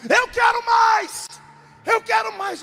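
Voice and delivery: very high, loud, slow shouted plea; screamed demand. Retold or imitated. Wife waking her husband at dawn, loud scream. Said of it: "ela acordou gritando".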